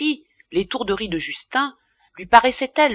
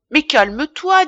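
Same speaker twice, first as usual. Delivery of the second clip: higher, urgent protest; urgent pleading; 6 semitones higher, 4 dB louder than usual. A narrator's reading. Wife interrupts the raging apothecary, urgently pleading. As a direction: plead for him to settle down. Wife tries to calm angry husband.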